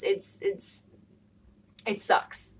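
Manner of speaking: real voice cracking into a whisper; choked up, words barely voiced; the words catch and go breathless with real hurt; voice breaking. Real, not acted. Emotional talk about being bullied.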